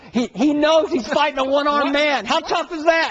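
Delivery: high-pitched mock boxer voice; Floyd voice. Debater imagines the boxer scoffing at a one-armed opponent, in a high put-on voice. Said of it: "was that your Floyd voice?".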